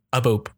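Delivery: a little spoken boop; phone hang up click. Shown as a demonstration. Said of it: "That's my hang up noise".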